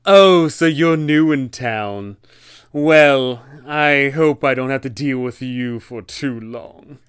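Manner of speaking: slow, snooty newcomer-hating local; a lightly voiced, condescending town NPC greeting adventurers; snide townsperson. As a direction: look down your nose at the new arrival. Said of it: "a character that says".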